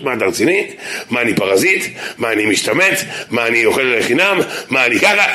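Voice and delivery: put-on 1 insecure yeshiva boy. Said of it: "נכנסים לרגשי נחיתות".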